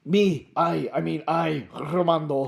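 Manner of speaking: put-on accented, measured mysterious foreigner; Romando. Romando seeks Alfie, put-on accented character voice. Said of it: "I've chosen to go low".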